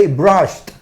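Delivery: "Brushed" as "brusht", t clearly released. Shown as a demonstration. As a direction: end "Brushed" with sh plus voiceless t. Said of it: "terminado en T".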